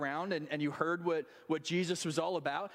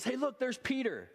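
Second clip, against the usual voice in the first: higher, eager call across the table; excited call; 5 semitones higher than usual. Acted. A guest at the heavenly banquet hails Peter, excited. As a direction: point Peter out with delight. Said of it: "somebody says".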